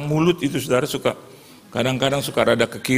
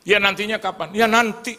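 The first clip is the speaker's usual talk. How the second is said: higher, insistent nagging; impatient back and forth; 9 semitones higher than usual. Retold or imitated. Child nags mother, higher insistent exchange. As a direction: nag and get brushed off.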